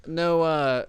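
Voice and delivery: high laughing voice. Real, not acted. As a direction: laugh through the words. Laughing at the joke.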